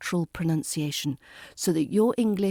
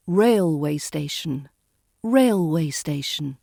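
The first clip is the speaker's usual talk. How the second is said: railway station with the weight on the first syllable; stress on rail; 3 semitones lower than usual. Shown as a demonstration. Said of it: "stress falls on the rail of railway".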